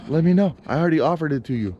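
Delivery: imitating an annoyed talk with the landlord; mock confrontation. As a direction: tell the landlord off, half in jest. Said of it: "I'm gonna be like".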